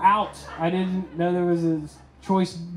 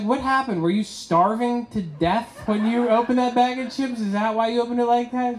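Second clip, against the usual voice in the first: higher, mock disbelief; incredulous question at girlfriend, higher; 5 semitones higher than usual. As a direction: ask it like you can't believe it.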